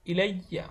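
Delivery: "ইলাইয়া" with the doubled y sounded; pronounced ya. Shown as a demonstration. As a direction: let the y be heard in "ইলাইয়া", then aa. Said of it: "ইয়ার উচ্চারণটা কিন্তু আসবে". ("ইলাইয়া"-তে ইয়া-র দ্বিত্ব উচ্চারণ শোনা যায়)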